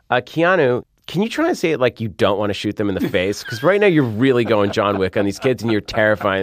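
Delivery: mock director note. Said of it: "And I was like".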